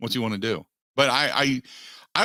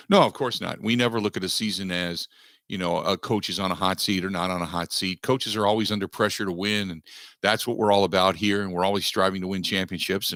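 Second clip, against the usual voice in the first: mock coach-speak; 3 semitones lower than usual. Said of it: "That's the answer you're gonna get".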